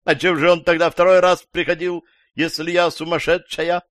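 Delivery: loud, high-pitched indignant outburst; crying out. A narrator's reading. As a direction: shout your challenge back, loud and high. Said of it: "закричала женщина".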